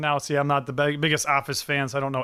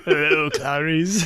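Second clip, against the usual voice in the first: slow Hannibal line; slower than usual. Retold or imitated. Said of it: "I was like".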